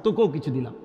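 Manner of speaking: very soft, low voice; hushed granting. Acted. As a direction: grant it gently, almost under the breath. God softly grants the plea. (খুব নিচু, নরম স্বরে)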